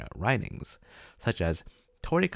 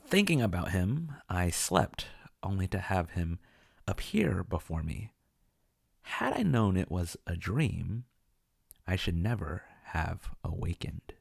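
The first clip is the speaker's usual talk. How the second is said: slow, measured verse with long pauses; poem reading; slower than usual. Acted. Narrator gives viewers the poem in translation, measured recitation. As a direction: read the translated poem line by line, letting it fade.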